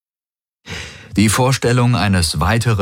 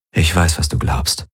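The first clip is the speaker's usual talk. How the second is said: gentle. A narrator's reading. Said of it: "sagte er sanft".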